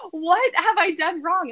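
retold dismay. Retold dismay at doctor's news.

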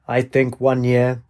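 slow, mimicked robot monotone; copied robot voice. A narrator's reading. Student copying the quizmaster's robot voice as his answer, robotic. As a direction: echo the robot voice, drawn out slowly. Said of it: "He laughed and copied".

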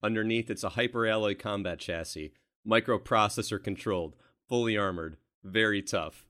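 lightly acted movie soldier reciting specs; Kyle Reese script reading. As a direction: punch out short phrases, one by one. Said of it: "he's gotta say these things".

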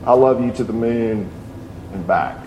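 low, soft bedtime reply; hushed dad to a sleeping child, sinking on the last words; lightly acted tender father, voice dropping away; tender daddy rabbit. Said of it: "And the daddy says".

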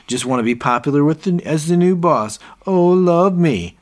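hammed-up mockery, rising to a whiny plea; mocking sneer. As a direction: sneer at the new boss's need to be liked. David mocks Neil as boss.

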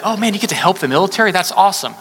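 sarcastic delight at serving soldiers; mock enthusiasm. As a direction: gush with fake excitement. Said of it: "you could be like".

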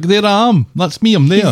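high, thrilled squeal of self-recognition; excited SpongeBob. Acted. SpongeBob seeing himself on TV, giddy and high. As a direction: gush like you just spotted yourself on TV. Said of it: "he's very excited about the fact".

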